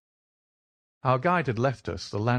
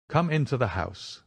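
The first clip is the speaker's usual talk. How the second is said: crisp and firm; 2 semitones higher than usual. Acted. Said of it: "in his crisp, firm way".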